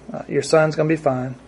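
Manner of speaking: quiet, calm promise that all is well; soft reassurance. Shown as a demonstration. Jesus gently reassuring the worried father, softly. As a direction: lightly say it as a comfort. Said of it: "something in how he said it".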